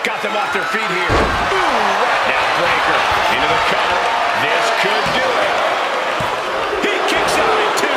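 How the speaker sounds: wrestling commentator. Real, not acted. Live play-by-play of a match.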